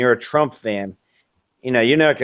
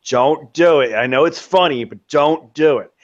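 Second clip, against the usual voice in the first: inner voice warning; 2 semitones higher than usual. Retold or imitated. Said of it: "the voice in the back of my mind".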